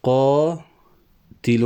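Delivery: قاتل stretched with a long alif; slow scansion. Shown as a demonstration. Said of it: "الألف ساكنة". (تطويل ألف قاتل ببطء)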